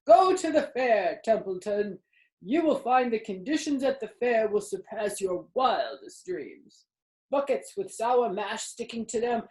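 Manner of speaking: put-on a sly old sheep listing treats with relish; tempting old sheep. A narrator's reading. Old sheep tempting Templeton with fair food, relishing.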